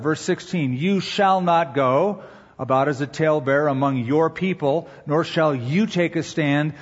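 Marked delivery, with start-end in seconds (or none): 0.7-4.9 "You" given clear emphasis; stress on You. Shown as a demonstration. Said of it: "I'm gonna emphasize the word". 5.1-6.7 "you" singled out with emphasis; stress on you. Shown as a demonstration. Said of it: "I'm gonna emphasize the word".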